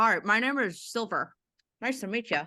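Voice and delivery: words pushed around a full mouth of food. In a roleplay, greeting Izzy, talking with mouth full. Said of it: "With a big mouthful of food and coffee".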